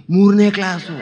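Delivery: loud, sudden burst; emphatic punchline reply. Retold or imitated. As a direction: belt out the absurd answer. Loud punchline reply after hush. (ಜೋರಾಗಿ ಒತ್ತಿ ಹೇಳುವ ಉತ್ತರ)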